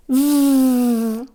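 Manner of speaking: V as a buzzing sound; letter sound V. Shown as a demonstration. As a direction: say V as a phonics sound. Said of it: "let's make the first action and sound".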